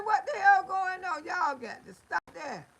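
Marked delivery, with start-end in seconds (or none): 0.0-1.2 louder, punchy retold exclaim; loud retold outburst. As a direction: blast the question at the feuding family. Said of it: "I say".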